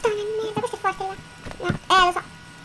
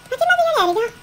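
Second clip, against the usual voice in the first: amazed; 9 semitones higher, 9 dB louder than usual. Real, not acted. Amazed at new block.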